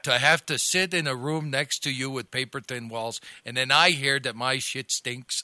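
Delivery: lightly voiced offended dude impression; Russ Rivas. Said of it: "that's a Russ Rivas right there".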